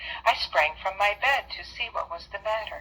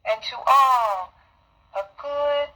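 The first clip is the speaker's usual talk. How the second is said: higher, louder, slow festive call; jolly exclamation; 7 semitones higher, 4 dB louder, slower than usual. Acted. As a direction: ring it out as he flies off. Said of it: "I heard him exclaim".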